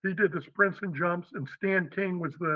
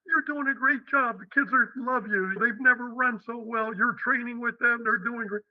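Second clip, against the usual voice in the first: higher-pitched, mildly pleading imitation; protesting colleague; 5 semitones higher than usual. Charlie answers coach's resignation, lightly acted protest. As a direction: talk him out of quitting, pitched up.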